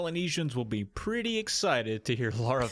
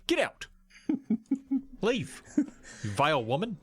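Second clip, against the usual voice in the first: higher, mock Viking islander; a hammed-up Viking accent, higher voice; weird Viking accent; 8 semitones higher than usual. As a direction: play an annoyed Polynesian in a strange Viking accent. Polynesian dismissing Lara.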